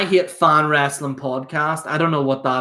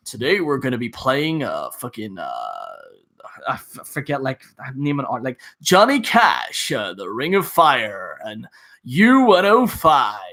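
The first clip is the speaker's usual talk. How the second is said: mock radio DJ; 3 semitones lower than usual. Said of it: "they all think that they're from, like, B B C Radio two".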